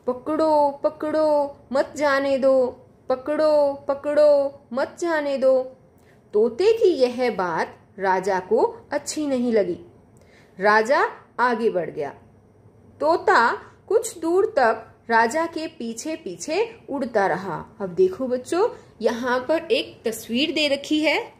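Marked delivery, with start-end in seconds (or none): 0.1-5.6 excited parrot shrieking pakdo at the king; parrot yelling. Acted. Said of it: "वह चिल्लाने लगा". 6.3-17.8 put-on measured storybook read for small children; storytelling voice for young pupils; story reading. A narrator's reading. Teacher reads textbook story aloud.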